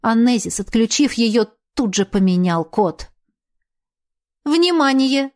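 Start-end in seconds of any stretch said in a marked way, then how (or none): 4.5-5.3 automated onboard warning system; ship computer voice. A narrator's reading. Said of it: "Снова раздался голос компьютера".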